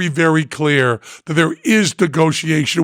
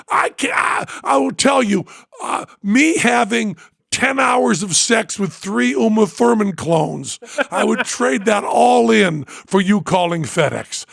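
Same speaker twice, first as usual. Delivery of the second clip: higher-pitched, overjoyed yelling at a friend; ecstatic screaming; 5 semitones higher than usual. Retold or imitated. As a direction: shout your joy down the phone. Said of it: "I'm just screaming".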